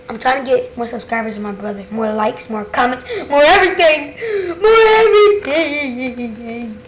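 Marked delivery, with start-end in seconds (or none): 3.3-4.1 laughing. Real, not acted. Boasting about beating his brother. 4.6-6.8 drawn-out mock evil. Repeats boast in drawn voice.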